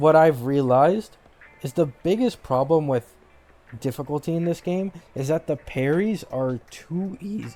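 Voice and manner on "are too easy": voice cracking mid-phrase on easy. Talking about parry difficulty in a game, voice cracking. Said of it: "Sorry, voice crack".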